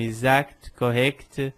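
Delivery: "exact, correct" with both c and t sounded; "exact, correct" ending in a crisp k-t; final consonants pronounced. Shown as a demonstration. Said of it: "palavras que acabam com C T".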